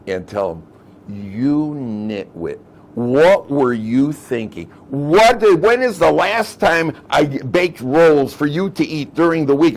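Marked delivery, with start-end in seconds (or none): 1.1-9.7 slow, louder, exasperated scolding; scolding wife. Pretend. Rachel scolds her husband over the eaten rolls, exasperated. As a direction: give the husband an earful.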